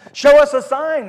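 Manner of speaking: high, loud mock demand; demanding shout. Pharisees challenging Jesus for a sign, loud demand. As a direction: throw the challenge at him.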